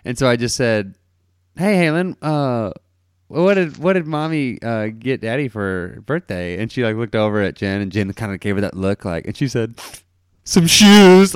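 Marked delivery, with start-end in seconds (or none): 1.6-6.6 put-on sweet-talking a toddler. Asking the four-year-old sweetly. 10.5-11.4 put-on blurting child. Four-year-old blurts out secret.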